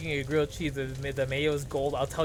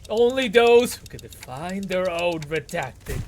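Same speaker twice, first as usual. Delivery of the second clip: dramatic verse reading; 5 dB louder, slower than usual. Acted. Game incantation read aloud.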